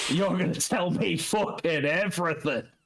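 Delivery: normal talking voice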